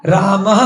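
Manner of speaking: रामः ending in a light breathy h after the a; visarga demo. Shown as a demonstration. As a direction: say रामः with a faint half h at the end. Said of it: "हल्का सा ह का सा उच्चारण आता है". (रामः में हल्का सा ह बोलते हुए)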